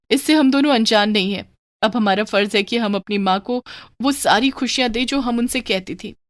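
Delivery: a hint of an earnest, regretful daughter; lightly voiced daughter. Daughter admitting fault to her sister, mild remorse.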